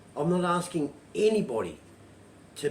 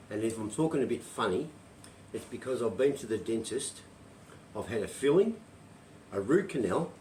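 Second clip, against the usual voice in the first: lisping with a numb mouth; dental lisp; 4 semitones lower, 3 dB quieter than usual. Real, not acted. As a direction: talk through a sore, numb mouth after the dentist. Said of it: "So excuse me for my lisp".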